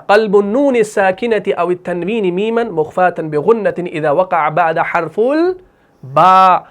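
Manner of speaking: slow, measured Arabic recitation; formal Arabic recital; rule recitation. Real, not acted. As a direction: recite the rule from memory, drawing out the last word.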